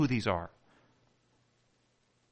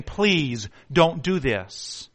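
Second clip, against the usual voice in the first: slow pleading; much slower than usual. Acted. Friends begging him not to shoot.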